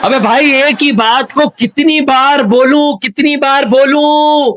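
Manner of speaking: at the end of your patience, stretch the last words; exasperated. Acted. Interviewer fed up with repeating himself to deaf guest, high exasperated wail.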